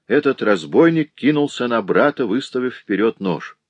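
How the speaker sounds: plain reading voice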